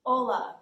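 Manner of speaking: Hola with a clear Spanish o, stress on the first syllable. Shown as a demonstration. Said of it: "how to say hello in Spanish".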